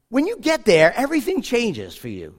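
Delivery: 轻声耳语，带着期待; hushed, as if sharing a secret; whisper. Acted. Dramatic pause in mission story.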